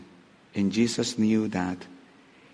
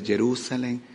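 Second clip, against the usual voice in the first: lamentation; 2 semitones lower than usual. Acted. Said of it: "a lamentation".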